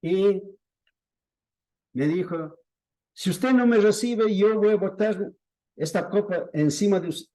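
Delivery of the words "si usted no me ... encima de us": imitated angry threat. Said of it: "se enfureció".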